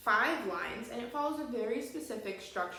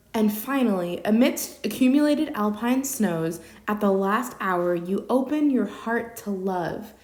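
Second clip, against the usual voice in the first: poem reading; 9 dB louder than usual. Shown as a demonstration. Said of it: "It reads".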